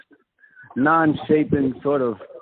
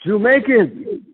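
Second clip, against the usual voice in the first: slow drawn-out Jamaican pronunciation, pitched up; Jamaican accent; 4 semitones higher, 3 dB louder, much slower than usual. Pretend. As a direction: stretch it out in patois. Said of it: "I'll start my patois".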